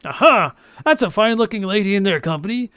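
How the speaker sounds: normal talking voice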